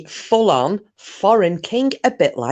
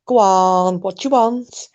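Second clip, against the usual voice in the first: high, cheerful chatty voice; high cheerful voice for a friendly Alexa; chatty local Alexa; 7 semitones higher than usual. Retold or imitated. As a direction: play a friendly gossipy Alexa, pitched up. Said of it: "says something like".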